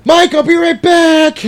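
high, slow, silly put-on voice; squeaky cartoonish take on a movie hero; hammed-up high voice; high mock character voice. Voicing character in cave scene.

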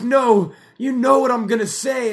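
Louis teasing the crowd; coy Louis. Retold or imitated. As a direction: play coy. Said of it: "He'll be like".

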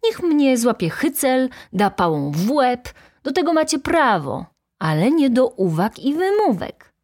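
student defying the landlord's men; irritated defiance. A narrator's reading. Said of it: "mówił zirytowany".

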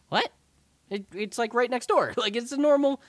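high-pitched exasperated disbelief; mock outrage, voice climbing; incredulous. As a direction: protest it in a high, laughing voice. Acted disbelief at people balking.

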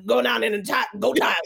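throaty Cajun coach impression. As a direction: imitate a coach with a frog in his throat. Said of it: "sounds like he has a frog in his throat".

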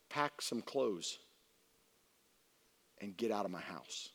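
low, slow, quiet retold order; restrained, weary-slow ultimatum; understated frustration. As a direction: drop low and soft to retell a grim command. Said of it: "I was so frustrated".

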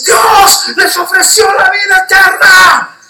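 high, slow, loud yell; shouting with all his might. Retold or imitated. Dreamer yelling himself hoarse at the herd. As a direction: yell it with everything, going hoarse. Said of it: "les gritaba con todas mis fuerzas".

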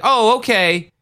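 put-on high-pitched old lady reply; old woman impression. Woman giving up on lawn work, high-pitched impression. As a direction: answer in her high put-on voice. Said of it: "And she's like".

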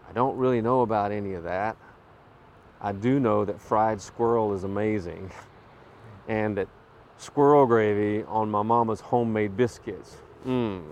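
thick Appalachian mountain drawl. Retold or imitated. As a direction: lay on a heavy hill-country mountain accent. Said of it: "in a heavy mountain drawl".

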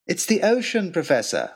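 high, exasperated protest. Acted. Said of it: "I protested".

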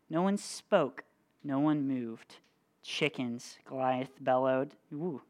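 lively read-aloud for a youth group; storyteller voice, building suspense; dramatic storytelling. Acted. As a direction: tell the Bible story with drama. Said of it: "read it kinda dramatically too".

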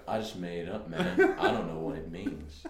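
low, soft mumbled impression of a singer. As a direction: lightly imitate a singer's offhand answer. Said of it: "when they ask a singer".

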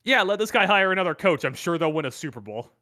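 mock enthusiasm, pitch jumps up then falls away; sarcastic approval. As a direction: play along with fake confidence. Sarcastic mock quote of fans.

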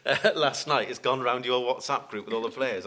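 bubbling over with giddy laughter; giddy laughing. Real, not acted. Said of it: "I'm so giddy".

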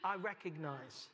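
humble prayer. Retold or imitated. Believer quietly confesses to God in humble prayer. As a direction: admit it gently before God. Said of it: "you need to say".

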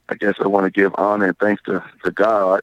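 hoarse, slightly slurred speech; raspy and a bit slurred. Real, not acted. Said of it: "my voice sounds a little, little raspy and my words slur".

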